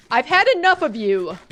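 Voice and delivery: ordinary delivery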